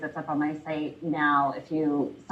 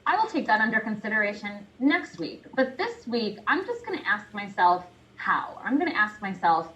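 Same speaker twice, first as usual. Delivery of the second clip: lilting reply to an inner critic; lightly acted, placating comeback; mock-polite brush-off; 3 semitones higher than usual. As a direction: politely dismiss the nagging voice, pitch swooping up at first. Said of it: "say, "You know, thank you".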